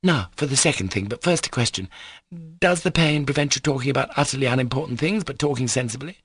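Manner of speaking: brisk, insistent questioning; bossy young girl. Acted. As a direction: press him like a little madam. Lisa questioning Alyosha.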